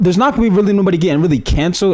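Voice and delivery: rushed, words tumbling out fast; hurried, fast-talking delivery; talking too fast. Real, not acted. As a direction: rattle it off too quickly. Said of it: "I'm talking so fast".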